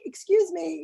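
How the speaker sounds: breathy hushed "excuse me"; polite whisper. Retold or imitated. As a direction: whisper it to get a clerk's attention. Asking a store worker politely.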